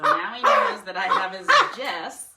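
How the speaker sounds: high squeaky voice for the bird; high pet voice. Pretend.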